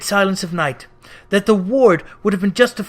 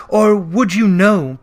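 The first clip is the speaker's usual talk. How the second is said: doomed ghost; 2 semitones higher, 6 dB louder, slower than usual. Acted. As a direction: speak as one bound by chains. Ghost voice held.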